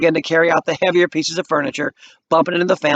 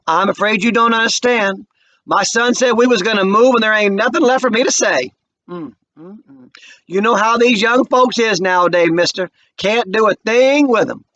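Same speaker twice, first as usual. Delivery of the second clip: dry Mama; 6 semitones higher, 3 dB louder than usual. A narrator's reading. Mama dismissing the white man, dry and final. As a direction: brush him off with motherly calm.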